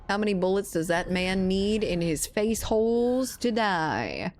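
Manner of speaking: put-on playful southern accent on purpose. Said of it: "your southern accent shows".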